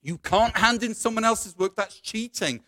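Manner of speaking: acted panic, pitch jumping up; panicked protest. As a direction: protest as control slips away. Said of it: "Satan starts to panic".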